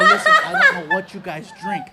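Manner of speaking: laughing exasperated reply. Retold or imitated. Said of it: "I go".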